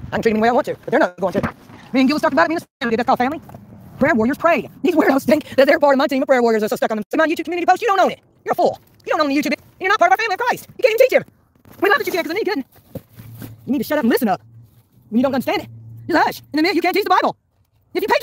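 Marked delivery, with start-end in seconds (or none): 4.0-12.4 rising, heated scolding at critics; angry rant. Real, not acted. Ranting at YouTube critics.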